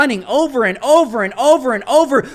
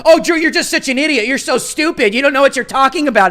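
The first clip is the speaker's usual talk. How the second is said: mocking critic; 4 semitones higher, 3 dB louder than usual.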